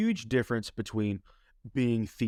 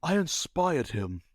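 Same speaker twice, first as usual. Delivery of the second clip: smug bragging; 3 semitones higher, slower than usual. Retold or imitated. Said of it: "but he was like".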